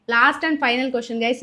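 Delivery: very slow, stretched announcement; slow dramatic host announcement; drawn-out announcement. Real, not acted. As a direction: stretch every word like a big reveal. Announcing the final question.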